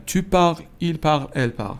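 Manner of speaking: "parles" and "parle" both stop on the L; silent endings. Shown as a demonstration. Teacher drills students on the singular, endings silent in "parle". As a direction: say "parle" with no final vowel or s. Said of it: "هیچ کدوم آش خونده نمیشه".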